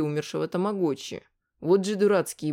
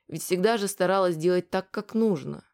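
ordinary delivery, nothing marked

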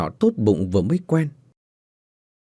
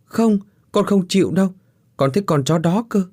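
much higher, whining refusal; stubborn child tantrum; 8 semitones higher than usual. Acted. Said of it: "hai chân giãy đành đạch".

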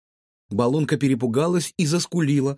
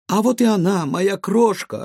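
чуть выше и громче, слащаво-радостное приветствие; мадам радостно встречает свою крошку; женский голос; 6 semitones higher, 5 dB louder than usual. A narrator's reading. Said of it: "знакомый женский голос". (гадалка слащаво зовёт девочку, с лёгким подъёмом голоса)

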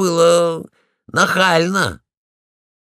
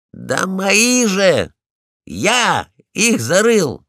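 slow indignant claim; 5 semitones higher, 4 dB louder, slower than usual. Acted. Polkan claims the bones.

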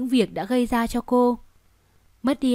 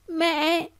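put-on soft, higher little child's call; softly calling; 6 semitones higher than usual. Little daughter softly calling her mother. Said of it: "nhỏ giọng gọi".

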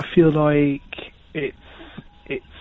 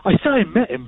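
a bit more lively telling; excited; 6 semitones higher, faster than usual. Shown as a demonstration. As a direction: lift it with some excitement. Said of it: "But sound excited".

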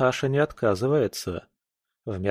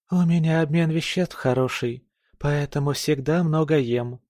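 condescending; 6 semitones higher than usual. Acted. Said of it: "пояснила снисходительно".

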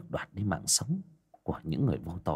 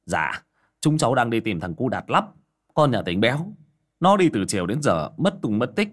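Ông Sơn; 3 semitones higher, 6 dB louder than usual. Acted. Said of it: "Ông Sơn cất tiếng".

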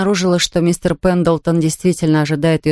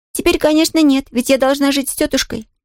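put-on higher, bright girl's voice, nodding happily; eager little girl; 7 semitones higher than usual. A narrator's reading. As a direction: play a delighted young girl. Pollyanna answers.

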